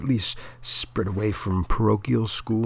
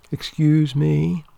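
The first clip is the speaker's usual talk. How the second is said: offended; 7 semitones higher, 7 dB louder, slower than usual. Acted. Offended retort.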